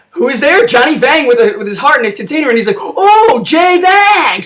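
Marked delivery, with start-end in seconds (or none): 2.8-4.4 high excited shout of the name; calling out. Retold or imitated. Chelios spotting Johnny Vang, high shout. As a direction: yell it across the street.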